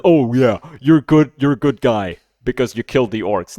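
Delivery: sarcastically praising a hero; mock praise. Mocking the hero praise in a sarcastic voice. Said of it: "and say that".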